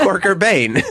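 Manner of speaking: high, laughing mock Spanish accent; mimicking Spanish accent. Host calling him a Batman villain, mock Spanish accent. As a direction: giggle through her Spanish-accented pronunciation. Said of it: "It's my Spanish accent".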